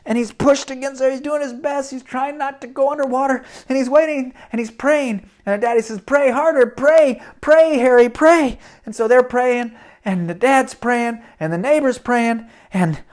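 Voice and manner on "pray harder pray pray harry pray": urgent urging. Acted. Father urges son to pray.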